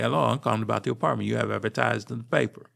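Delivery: quick African American English accent on the phone; African American dialect. Shown as a demonstration. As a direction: switch into a Black American dialect, fast. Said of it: "I would modify my speech".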